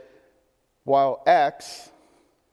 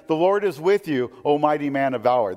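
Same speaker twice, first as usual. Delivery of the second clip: a touch of dry mockery on mighty man of valor; sarcastic angel; 4 dB louder than usual. Angel greeting the hiding Gideon, mildly sarcastic. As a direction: let the praise ring hollow, lightly mocking. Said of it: "That's sarcasm".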